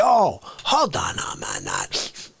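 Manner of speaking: slow shout, then dropping low; hammed-up indignation trailing off; How Dare You guy. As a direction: drag out the catchphrase. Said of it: "How Dare You Drag Racer".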